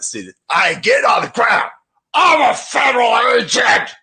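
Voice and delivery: high, wailing, teary mock sob; mocking crying agent. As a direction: whimper it like a crybaby agent. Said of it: "And then he finally".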